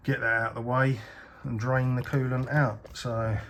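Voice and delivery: speaking while lying under the car. Real, not acted. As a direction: talk flat on your back under the car. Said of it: "I'm under the car".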